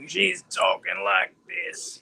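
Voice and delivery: slow, gravelly tough-woman voice; mock gravelly outlaw drawl; gravelly impersonation. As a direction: growl it slowly like a rough outlaw. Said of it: "a gravelly voice too".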